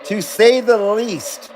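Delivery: drawn-out ironic repeat; slow mocking echo. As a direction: savor it slowly with mock gravity. Repeats comment slowly, mockingly.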